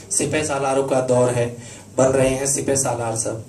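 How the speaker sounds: measured, rhythmic stage verse; deliberate Hindi poetry delivery with strong beats; satirical poem recitation. Acted. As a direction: declaim each line pointedly to the audience.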